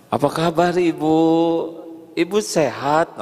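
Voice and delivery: bright, friendly asking after mother; smiling greeting. Shown as a demonstration. Child phones his mother, smiling and friendly. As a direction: let the smile be heard. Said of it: "Senyum tidak begitu?".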